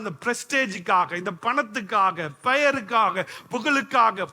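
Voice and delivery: hammered, rhythmic list of charges; accusing preaching. Real, not acted. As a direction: drive home each deceit as a charge. (குற்றம் சாட்டும் தொனியில் அடுக்கடுக்கான பிரசங்கம்)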